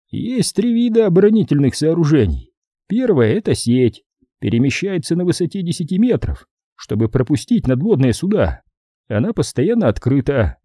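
lightly voiced colonel listing defences; colonel briefing. Colonel explaining the strait's defences, lightly voiced briefing.

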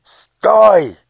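loud, high piercing yell; piercing shout. Acted. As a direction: shout to stop her jumping. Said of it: "пронзительно закричал он". (пронзительный крик)

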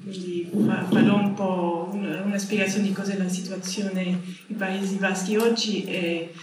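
non-native speaker with a foreign accent in Italian; Italian spoken with a light foreign accent; english accent in italian. Real, not acted. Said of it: "mi scusate il mio italiano".

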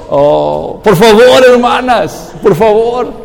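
loud plea to the sisters; pleading shout. Real, not acted. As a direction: beg them, half-shouting. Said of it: "pleading with wives".

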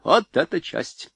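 high, loud elated exclaim; delighted. A narrator's reading. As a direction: burst out in delight. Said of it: "пришёл в восторг генерал".

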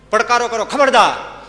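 high, loud shouted warning; battle challenge. Acted. Young men confronting the armed mob, shouting.

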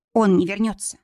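ordinary delivery, nothing marked

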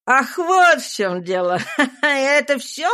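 laughing it off, embarrassed; merry laugh. A narrator's reading. Master laughing off the servant's rebuke. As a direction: cover the blush with a laugh. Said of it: "весело спросил он".

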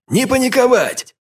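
high, slow barked command; barked order. A narrator's reading. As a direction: snap them out of panic. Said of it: "рявкнул Броган". (рявкающий приказ)

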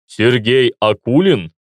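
slow, muffled voice behind a mask; through a gas mask. Acted. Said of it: "Голос был глухим, словно человек говорил в противогазе".

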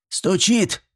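high, rising demand on "стучит"; stern granny double-checking; menacing question. A narrator's reading. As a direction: ask "стучит" sternly, pitch climbing. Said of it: "грозно переспросила Степанида".

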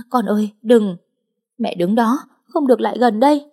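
frantic shout. Acted. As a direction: cry out to stop her. Mother and daughter cry out.

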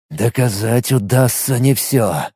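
low, slow, doubtful man; grim man. Acted. Matvey's reply.

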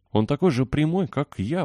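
put-on high, excited boyish exclamation; bursting out in a high voice; exclaiming. A narrator's reading. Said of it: "воскликнул Дик".

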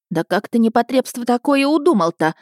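high, indignant woman's telling-off; scolding. A narrator's reading. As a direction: tell the lad off, pitch climbing. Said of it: "отчитывала она парня". (возмущённая выволочка)

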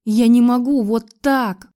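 desperate outburst. Acted. Desperate tearful outburst to Max.

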